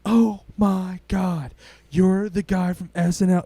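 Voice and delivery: hammed-up fan squeal; mock gushing fan. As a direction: gush like a starstruck mom. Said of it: "she was just like".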